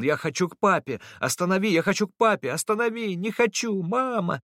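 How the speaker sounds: put-on a scared boy screaming for his papa; frightened crying child. A narrator's reading. Boy Samat wailing in fear to be taken back. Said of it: "закричал, заплакал".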